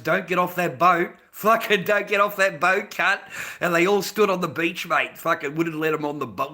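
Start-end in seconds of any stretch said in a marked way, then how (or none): 0.0-3.2 louder imitated warning, building; forceful mock threat; retold threat. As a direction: shout a retold order at people in a boat. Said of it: "they fucking threatened these cunts".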